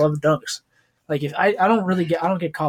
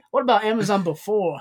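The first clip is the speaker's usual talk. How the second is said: higher mock Asian accent with a laugh; 6 semitones higher than usual. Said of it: "his Asian accent he puts on".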